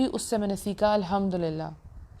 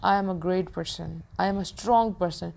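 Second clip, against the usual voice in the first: very slow, deliberate self-affirmation; slow, firm words to your own reflection; much slower than usual. Shown as a demonstration. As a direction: spell each word out as if to a mirror. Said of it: "شیشے میں کھڑے ہو کے کیا کہیں گے؟".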